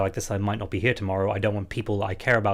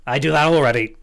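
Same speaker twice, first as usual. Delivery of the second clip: emphatic retort; 6 semitones higher, 8 dB louder than usual. Retold or imitated. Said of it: "I was like".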